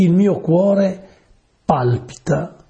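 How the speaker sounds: slow, drawn-out recital of the verse; solemn scripture reading. Acted. Preacher reads the psalm to his listeners, slow and solemn. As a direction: read the line of the psalm with weight.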